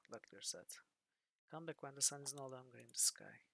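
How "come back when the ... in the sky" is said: hoarse unvoiced whisper; croaking whisper. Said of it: "croaked the voice".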